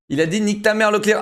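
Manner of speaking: laughing through the words. Real, not acted. Streamer laughing at the French pro's interview. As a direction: laugh while repeating it, sped up.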